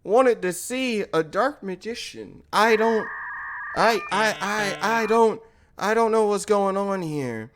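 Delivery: hushed, halting stammer; softly faltering, mildly fearful; scared. Retold or imitated. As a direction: imitate a nervous bystander stumbling over words. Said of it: "I'm sitting there scared, kinda shaking a bit".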